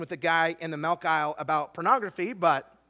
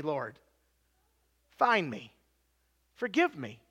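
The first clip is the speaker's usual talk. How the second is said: acted humble prayer; 3 semitones lower, slower than usual. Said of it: "come back to the Lord and say".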